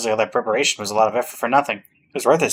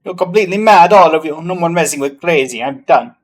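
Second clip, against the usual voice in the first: angry villain; 5 semitones higher, 7 dB louder than usual. Acted.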